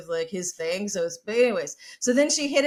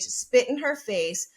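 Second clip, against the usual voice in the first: usual speaking voice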